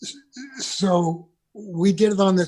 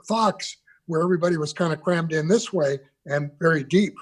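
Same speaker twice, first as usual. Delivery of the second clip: hiccuping. Real, not acted. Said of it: "Excuse me for hiccuping".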